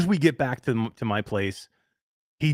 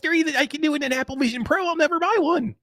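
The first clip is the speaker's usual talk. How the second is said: much higher, exaggerated Canadian accent; mock Canadian accent; 12 semitones higher than usual. Host quoting Todd's refusal to buy, in a mock Canadian accent. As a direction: lampoon a smug Canadian friend. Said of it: "your exact Canadian words".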